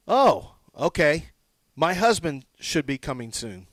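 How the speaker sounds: imitating relief at a husband coming; relieved. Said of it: "Notice the different energy".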